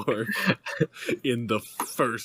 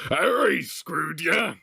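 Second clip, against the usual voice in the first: high, slow shocked question; stunned disbelief, drawn out; thunderstruck; 8 semitones higher, 3 dB louder, slower than usual. Acted. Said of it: "Hagrid asked, thunderstruck".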